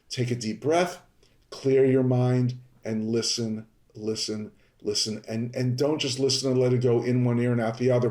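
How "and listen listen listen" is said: fading calm repeat. Shown as a demonstration. Calming breath, listen repeated.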